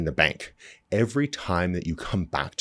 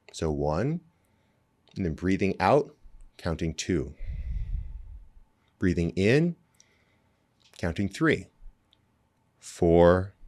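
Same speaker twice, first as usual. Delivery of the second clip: slow breath counting. Shown as a demonstration. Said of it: "we wanna count one".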